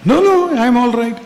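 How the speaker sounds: high, loud protest no no; mock-defensive high no. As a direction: squeak out a hurried denial. Speaker denying he is sad.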